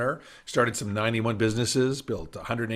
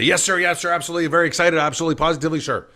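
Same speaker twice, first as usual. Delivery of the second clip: eager yes sir; 4 semitones higher, 5 dB louder, much faster than usual. Retold or imitated. Eager young salesman answering client.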